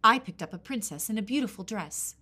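put-on loud, boastful wind girl. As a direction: brag about it loudly.

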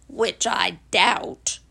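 very slow, low donkey voice; low, dragging gloom; gloomy Eeyore. Acted. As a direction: draw it out dolefully. Eeyore doubts the morning.

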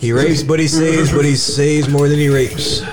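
slow, measured quote; slowly quoting a friend; slow quoted line. Retold or imitated. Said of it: "is what A M said".

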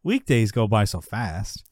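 lilting, talking-himself-into-it imitation; rationalizing spiel. Jerry explains away the remaining days, mock rationalizing. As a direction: run through it like a reassuring sales pitch. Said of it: "he goes into his whole thing".

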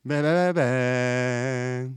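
slow drawn bleating; goat voice. Shown as a demonstration. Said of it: "Retente-le". (chèvre qui bêle lentement)

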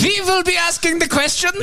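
high, hammed-up Russian interrogator accent; mock Russian accent. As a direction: play a cartoon Russian spy with a Russian accent. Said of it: "I had to make sure that I had the right accent".

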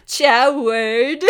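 loud, rising playful ciao; mock flirty greeting. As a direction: sing it out flirtily. Repeats the quote.

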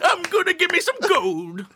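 put-on high, cracked old prospector holler. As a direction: yell it like a grizzled gold miner. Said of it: "Old grizzled miners".

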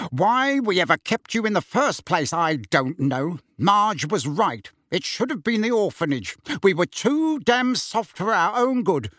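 worked-up, rising tirade; angry rant. Acted. Uncle ordering the boy out of the house, angry rant.

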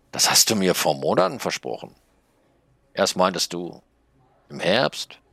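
high snail voice, pushing gently; a small magic snail urging the writer; little snail, nagging. Acted. Snail reproaches narrator. (hohe Schneckenstimme, drängelnd)

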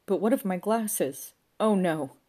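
high, loud theatrical lament; loud dismay. A narrator's reading. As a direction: cry out over a disaster. O'Fagan laments his broken glasses.

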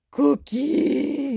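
excited cookie cry. Acted. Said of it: "and said".

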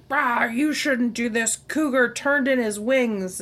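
slow, laid-back bro voice; frat bro. Retold or imitated. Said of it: "and he's like".

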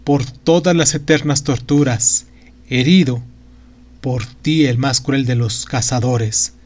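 a lightly voiced trembling old magician in torment. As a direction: plead and rail at a cruel god. The magician's lament.

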